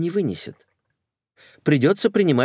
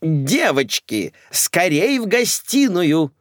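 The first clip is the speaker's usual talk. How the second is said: high slow louder call; 7 semitones higher, 3 dB louder, slower than usual. Acted. Mother calls her guests to the lounge, loud. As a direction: summon the ladies. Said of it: "закричала Николетта".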